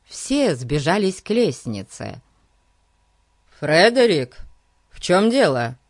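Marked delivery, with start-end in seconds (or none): 3.6-5.8 father's raised-voice call; loud questioning call. Acted. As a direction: call out to your son, demanding an answer. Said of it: "окликнул его отец".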